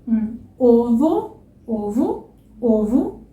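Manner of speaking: ovo with a closed o. Shown as a demonstration. Teacher modelling ovo, slow and closed. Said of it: "por exemplo".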